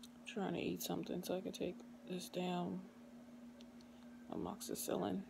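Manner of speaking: slurred numb-mouth speech after surgery; groggy from anesthesia. Real, not acted. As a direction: talk through a numb, swollen mouth. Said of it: "Just had my wisdom teeth taken out".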